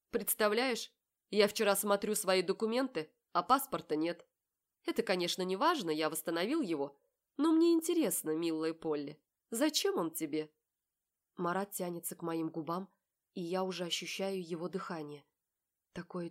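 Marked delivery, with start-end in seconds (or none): 0.1-10.5 Marat's voice. A narrator's reading. Marat's voice in dialogue.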